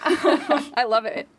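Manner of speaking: slow laughing words. Real, not acted. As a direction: laugh through it warmly. Laughing reply.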